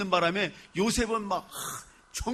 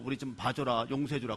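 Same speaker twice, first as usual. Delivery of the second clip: mock plea; 7 semitones lower, 7 dB quieter than usual. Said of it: "잘해주라 그랬어".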